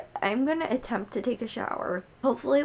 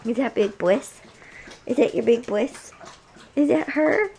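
rising, louder sing-song to the dog; excited pet talk; 4 semitones higher, 5 dB louder than usual. Real, not acted. Talking to her puppy, eager high pet talk. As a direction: perk the pup up with eager questions.

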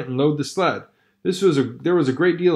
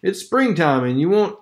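onlooker voice; 5 semitones higher than usual. Acted. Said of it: "the man replied".

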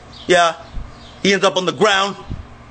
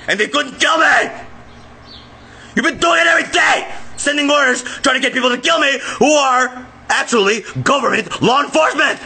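raised, heated rant at his family; real angry yelling. Real, not acted. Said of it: "Let me calm down a little bit".

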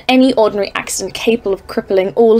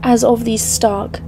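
dread-filled story narration; 4 dB quieter, slower than usual. A narrator's reading. Narrator describing the dread peaks.

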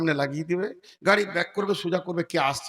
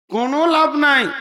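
loud, high-pitched insistence; emphatic preaching; 8 semitones higher, 8 dB louder than usual. Real, not acted. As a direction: drive it home loudly to the crowd. Preacher drives the conclusion home.

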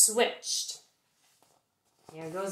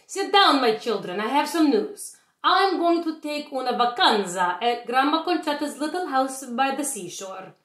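lightly voiced old Italian nonna, a bit higher; sweet old witch telling her children news; a hint of a kindly grandma; gentle grandmother voice; 4 semitones higher than usual. Stregonona voiced in read-aloud.

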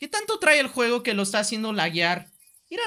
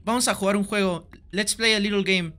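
sinister game villain; slower than usual. Pretend. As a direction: taunt him like a horror movie puppet master. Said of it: "Y le voy a decir".

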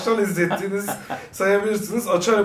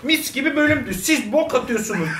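higher, indignant squeak; mock commenter voice; 6 semitones higher than usual. Reading a viewer's comment aloud in a high squeaky voice. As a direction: squeak it like a grasshopper. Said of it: "Bu ses tonu ne?".

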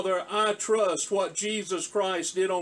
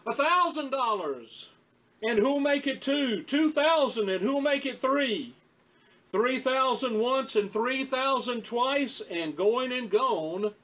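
higher, eager bidding calls; excited auctioneer; 4 semitones higher than usual. Acted. Auctioneer calling rising bids to the crowd, mildly excited. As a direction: lift each bid as the price climbs.

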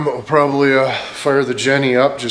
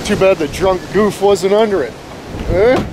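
raised, higher-pitched irritated outburst; angry outburst; 6 semitones higher than usual. Real, not acted. Vlogger venting about the broken tree, angry outburst. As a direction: let an irritated outburst slip out. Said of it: "Bit of an outburst there".

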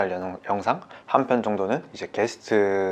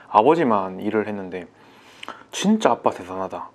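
normal talking voice

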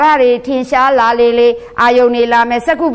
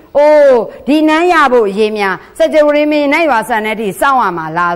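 impatient prince's thought; 2 semitones higher than usual. Retold or imitated. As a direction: lightly act out the heir's grumbling thought. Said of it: "တချို့ကတွေးနေပြီ".

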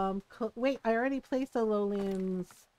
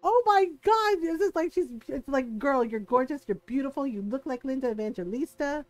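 gushing fangirl; faster than usual. Retold or imitated. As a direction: gush over her like a fan. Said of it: "We're like".

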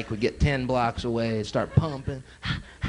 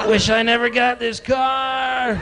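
high, slow, shouted lament; hammed-up shouted regret; mock regretful wail; 7 semitones higher, much slower than usual. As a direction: wail it with a laugh. Friend wailing in regret.

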